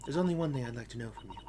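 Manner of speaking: fast, rushed delivery of the line; quick rushed retake. Shown as a demonstration.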